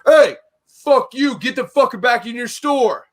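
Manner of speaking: high, loud retold outburst; angry confrontation. Store manager retelling the parking row, angry mock yell. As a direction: mimic an irate man telling someone off. Acted quote of angry neighbor.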